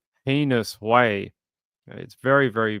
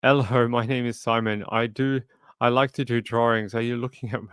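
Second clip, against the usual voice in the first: mock British accent. Reading a viewer's comedy sketch quote in a British accent. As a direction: put on a British accent, lightly. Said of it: "a heavy British accent".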